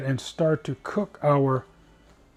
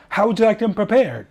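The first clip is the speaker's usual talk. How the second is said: higher, louder mock Italian waiter; lousy Italian accent; 6 semitones higher, 6 dB louder than usual. Italian server asking the diner again, lousy Italian accent. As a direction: play the Italian server, badly and big. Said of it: "I'm doing a lousy Italian accent".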